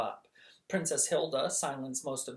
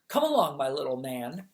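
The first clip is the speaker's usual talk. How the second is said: brisk mock coddling; 5 dB louder than usual. Sophie scooping up Twinkle.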